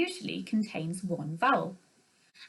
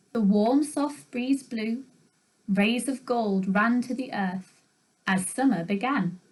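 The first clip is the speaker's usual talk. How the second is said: slow, gentle poem read. Shown as a demonstration. Teacher reading a haiku to the class, gently. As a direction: read the haiku aloud, unhurried. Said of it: "I'll read it to you".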